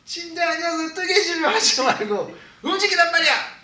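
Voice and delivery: high-pitched mock scolding; hammed-up nagging outburst; imitated annoyed husband. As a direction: scold your wife in exasperation. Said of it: "여사관한테 짜증내요".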